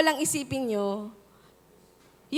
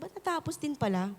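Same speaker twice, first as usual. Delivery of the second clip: soft wonder; 7 dB quieter than usual. Retold or imitated. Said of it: "sabi mo".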